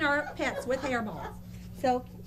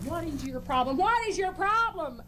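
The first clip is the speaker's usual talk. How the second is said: televangelist voice; faster than usual. Acted. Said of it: "I was Reverend Anita Moore Money".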